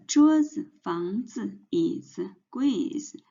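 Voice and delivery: 桌子, 房子, 椅子, 柜子 stressed on the first syllable, 子 light; neutral-tone 子 after a stressed syllable. Shown as a demonstration. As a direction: lean on 桌, 房, 椅, 柜 and let each 子 drop. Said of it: "we put the stress on the first word".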